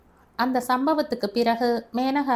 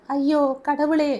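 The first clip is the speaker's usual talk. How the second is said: slow, high wail to God; mother breaking into a wail; wailing cry; 5 semitones higher, 4 dB louder, slower than usual. A narrator's reading. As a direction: beat your chest and wail. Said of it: "என்று அழத் தொடங்கினாள்".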